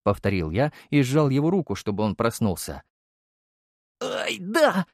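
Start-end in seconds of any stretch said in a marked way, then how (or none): 4.0-4.8 high pained squeal; thin, high-pitched yelp of assent; squeaking. A narrator's reading. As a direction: squeak it out as your hand is squeezed. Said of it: "тихо запищал зам".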